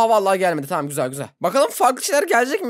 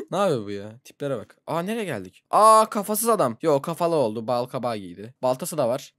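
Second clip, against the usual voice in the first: ordinary talk, nothing marked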